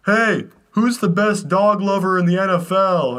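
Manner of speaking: high, drawn-out mock holler; imitated kid's shouted question, slightly held back; retold yell. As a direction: call it out to a whole bus. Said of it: "and I yell".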